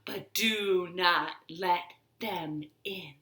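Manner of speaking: put-on soft secret whisper to the kids. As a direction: drop to a hushed whisper. Rhyme's secret whispered line.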